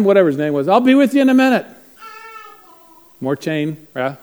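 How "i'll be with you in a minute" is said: loud, higher voice of a man hailing; calling out. Retold or imitated. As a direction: call out from behind a wall. Man calls from behind wall.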